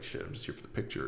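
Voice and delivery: breathy, hushed self-talk; whispered inner thought. Retold or imitated. Realising at the retreat he only came for the photo, hushed whisper. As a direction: mutter it to yourself, caught out.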